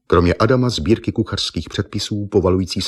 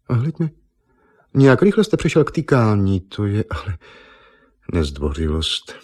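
mock indignation. Eva teasing Argon for his sudden familiarity, mock affronted. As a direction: tease him for being rude.

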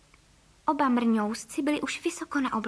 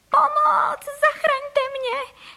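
much higher, loud, drawn-out panicked scream; screaming for help; 4 dB louder, much slower than usual. A narrator's reading. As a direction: shriek it slowly in terror while flying up. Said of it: "začala křičet". (vysoký, hlasitý, protáhlý výkřik o pomoc)

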